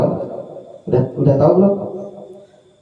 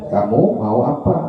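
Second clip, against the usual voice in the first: gentle offer over a meal; 4 semitones lower, slower than usual. Shown as a demonstration. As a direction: ask kindly, like offering food to friends at the table. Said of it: "Berarti kan nadanya beda". (nada lembut dan pelan saat makan bersama teman)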